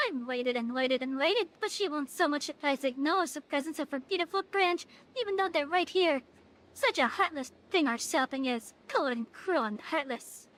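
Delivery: a hint of a sulky fairy, theatrically wounded; lightly voiced fairy. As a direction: mildly play the pouting fairy complaining of neglect. Reading fairy dialogue aloud.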